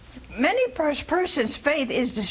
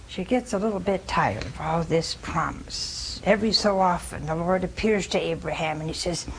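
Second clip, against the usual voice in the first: ordinary delivery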